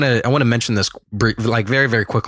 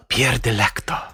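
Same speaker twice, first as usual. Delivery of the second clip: slow, lightly Italian name; romantic Italian voice. Shown as a demonstration. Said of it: "some romantic Italian voice".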